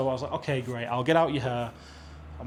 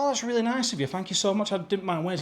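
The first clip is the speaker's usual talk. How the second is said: grateful; 6 semitones higher than usual. Retold or imitated. Retold thanks for free gas.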